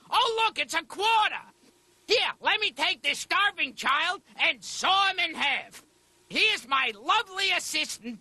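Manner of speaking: lightly voiced magic-show patter; a hint of showman presenting tricks; stage magician. Mother Teresa desperate for a miracle, playing stage magician.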